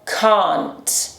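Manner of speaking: can't with a long open back a, British style. Shown as a demonstration. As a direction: say can't with a broad ah. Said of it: "Esse é o som de A aqui no inglês britânico". (can't com A longo e aberto, britânico)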